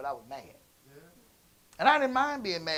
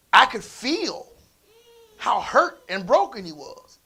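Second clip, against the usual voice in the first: voice breaking; 4 semitones higher, 8 dB louder, slower than usual. Real, not acted. Feeling son's hurt, voice breaks.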